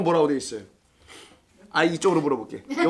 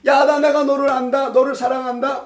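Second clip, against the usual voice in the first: voice of God; 6 semitones higher, 4 dB louder than usual. Acted. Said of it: "아모스에서 말한단 말이에요".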